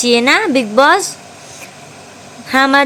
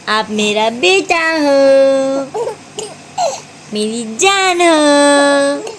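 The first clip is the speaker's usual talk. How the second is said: tender; slower than usual. Real, not acted. Mother tender to baby.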